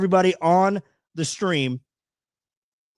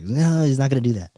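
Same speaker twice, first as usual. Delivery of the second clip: imitating girlfriend; 3 semitones lower than usual. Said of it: "Exactly what she sounded like".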